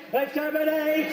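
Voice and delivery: slow, stretched robotic Dalek. Retold or imitated. Comic doing a Dalek to scare the burglar, slow and robotic. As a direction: grind it out like a Dalek. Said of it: "being a Dalek".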